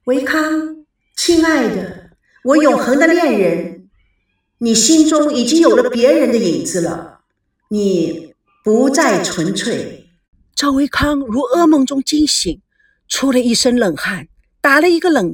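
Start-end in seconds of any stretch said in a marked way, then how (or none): 0.1-10.1 joyful voice. Acted. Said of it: "他带着欢愉的声音".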